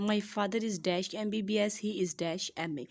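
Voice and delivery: slow, careful board reading; slow dictation. Shown as a demonstration. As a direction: read the sentences slowly, word by word. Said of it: "यहाँ पर मैंने दो sentence लिखे हैं".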